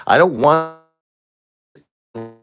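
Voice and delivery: high cracking cry of grief; voice breaking. Real, not acted. Widower breaking down to his viewers, voice cracking. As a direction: voice breaks on the words.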